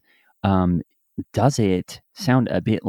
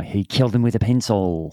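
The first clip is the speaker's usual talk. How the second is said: put-on Eastern European accent; Russian accent. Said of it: "with, like, a Russian accent".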